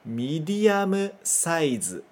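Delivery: slow "Medium size" as midiamu saizu; katakana medium size. Shown as a demonstration. Teacher modelling katakana "Medium size" slowly. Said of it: "mais no katakana".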